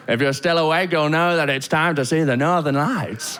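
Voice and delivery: lightly voiced pushy Brit, insistent; a touch aggressive, as a self-assured British bloke; slightly aggressive British man. British man offering to wake the couple for the lights, slightly aggressive. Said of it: "slightly aggressive British man".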